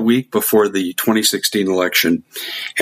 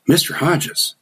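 Russian message; 5 semitones higher than usual. Retold or imitated. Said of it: "And they said".

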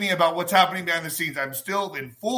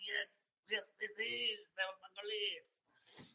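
laughing; 3 semitones higher, 21 dB quieter than usual. Real, not acted. Laughing cry after bit.

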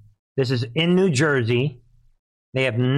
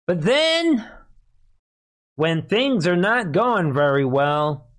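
sarcastic; 4 semitones higher, slower than usual. Acted. Sarcastic setup of the joke.

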